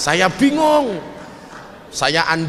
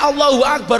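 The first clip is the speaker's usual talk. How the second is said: raised, louder imitation of a shouting crowd; mock yell; 6 semitones higher, 4 dB louder than usual. Preacher imitates people who only shout slogans, mock yell. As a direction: bark the slogan like a hothead. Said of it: "Kalau kita hanya teriak-teriak".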